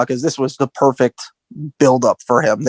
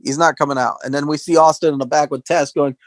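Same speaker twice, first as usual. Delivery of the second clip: ordinary delivery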